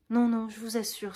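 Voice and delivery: lively. Acted.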